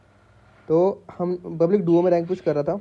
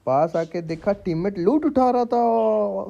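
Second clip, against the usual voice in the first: mock poetry recital; 3 semitones higher, much slower than usual. Reciting joke shayari couplet.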